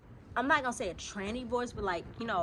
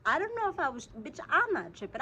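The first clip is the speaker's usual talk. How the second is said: raised high and loud, adamant; loud insistence; 7 semitones higher, 5 dB louder than usual. Real, not acted. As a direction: insist loudly, fired up. Insisting she heard it.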